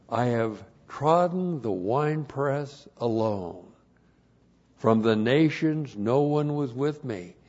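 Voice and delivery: measured, declamatory Bible reading; scripture reading. Real, not acted. Preacher reading Isaiah's winepress passage, measured declamation. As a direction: proclaim the verse, lingering on key words.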